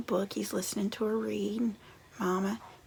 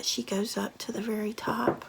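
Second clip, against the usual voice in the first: ordinary delivery, nothing marked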